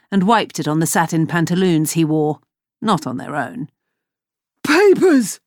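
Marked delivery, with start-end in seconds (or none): 4.6-5.4 high, loud gasp of a word. Acted. Hook choked by Lily's arm, high loud gasp. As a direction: gasp it out, choking. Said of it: "Hook gasped".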